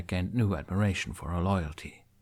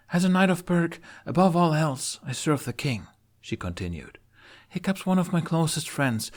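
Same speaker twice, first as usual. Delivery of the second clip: higher, earnest knight; Astrid; 8 semitones higher than usual. Acted. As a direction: plead with duty and warmth.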